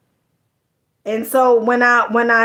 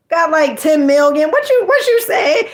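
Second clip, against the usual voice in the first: big shot brag; 5 semitones higher than usual. Retold or imitated. A big shot bragging about ten million to the listener. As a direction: crow it like you just made ten million. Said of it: "like, a big shot".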